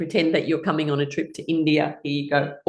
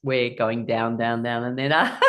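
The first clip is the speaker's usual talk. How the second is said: low "down, down", sliding up on "ah"; low voice with a rising release; sinking then rising; 5 semitones lower than usual. Shown as a demonstration. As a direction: follow the toast down, then swoop up. Acting toast going down, popping up.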